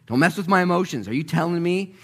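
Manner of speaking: high, loud, worked-up disbelief; agitated challenge. Acted. Peter reacting to Mary's news.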